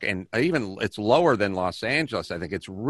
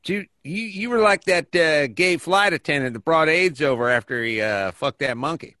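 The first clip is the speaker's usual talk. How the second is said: lightly voiced ignorant bigot, a bit higher; bigot character; 3 semitones higher than usual. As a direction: play a smug bigot with a thin disguise. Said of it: "Mister Bigot".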